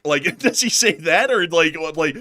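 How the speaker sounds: high, loud, laughing through words; tickled by your own joke. Real, not acted. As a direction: crack up while asking. Cracks up at own bit.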